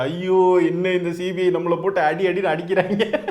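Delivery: hammed-up mock wail, laughing through it. Mocking the star crying over CBI, hammed-up laughing wail. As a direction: fake a whining cry while laughing. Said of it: "கிடந்து கதறிக்கிட்டு இருக்காரு".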